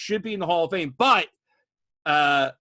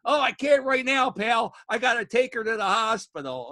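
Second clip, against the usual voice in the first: quoting Joey; 8 semitones higher, 3 dB louder than usual. Retold or imitated. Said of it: "And he goes".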